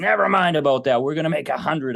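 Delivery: forceful, emphatic, insistent outburst. Retelling what a man said to him, retelling him getting really loud. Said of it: "then he got really loud and says".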